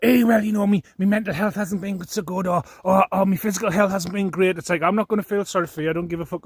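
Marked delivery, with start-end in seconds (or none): 0.0-4.6 higher, pleading parody of lame excuses; lightly mocking self-pitying whine; mock whiny excuse. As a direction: mimic a false friend crawling back. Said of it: "come back now and say".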